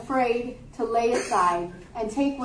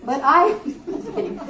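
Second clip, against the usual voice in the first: breaking into a higher-pitched laugh; real laugh; 4 semitones higher than usual. Real, not acted. Preacher jokes with the congregation about the poop pile, laughing. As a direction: laugh through the words. Laughs at her own joke.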